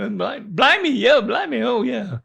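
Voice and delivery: a clumsy go at an Aussie voice; mock Australian accent. Dad attempting an Aussie accent after his son. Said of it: "I might can do it".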